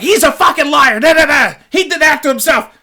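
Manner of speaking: loud, high, indignant yelling; mock outraged protest. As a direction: imitate a furious woman shouting accusations. Acting girlfriend protesting to cops.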